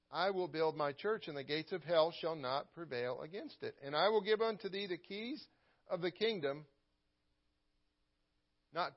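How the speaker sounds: measured, lifted King James reading; scripture reading. Acted. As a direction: read the verses with weight and reverence. Reads scripture aloud in sermon.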